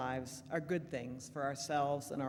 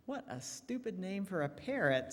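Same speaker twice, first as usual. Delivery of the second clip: mild sneer, slightly higher; 4 semitones higher than usual. Acted. Burglar mocking the parrot's name with a mild sneer. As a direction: scoff at the bird. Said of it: "sneers the burglar".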